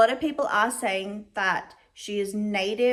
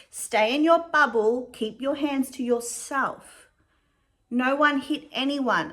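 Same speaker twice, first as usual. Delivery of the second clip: put-on parent to toddler; 2 semitones higher than usual. Shown as a demonstration. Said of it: "what I tell my kids".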